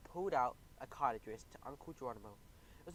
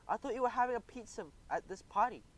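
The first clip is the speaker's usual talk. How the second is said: grumbling grandfather; 8 semitones higher, 3 dB louder than usual. A narrator's reading. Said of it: "he complained".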